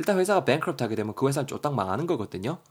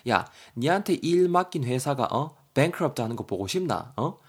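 acted nagging, pitch lifted, rising end; mock-berate someone, pressing each point; hammed-up scolding in Korean dialect; nagging telling-off; 4 semitones higher than usual. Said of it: "대거이를 겁나 쪼고 있죠".

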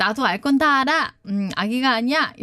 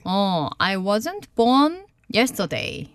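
slow teaching read; 3 semitones lower, much slower than usual. Shown as a demonstration. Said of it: "repeating the taught phrase".

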